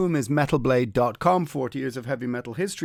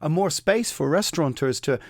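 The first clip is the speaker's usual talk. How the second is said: mock optimistic friends; 6 semitones higher than usual. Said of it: "my more optimistic friends were going".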